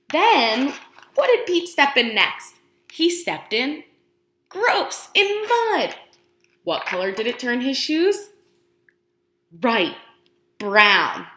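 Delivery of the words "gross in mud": mock disgust. Reacting to mud.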